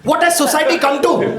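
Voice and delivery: high, loud scandalised lament; mock outrage. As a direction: lament it like a prim aunty. Mock gossip outrage banter.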